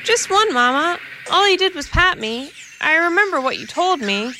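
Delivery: high, eager little kitten confessing; innocent kitten. A narrator's reading. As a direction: explain sweetly to your mother. Kitten answers mother.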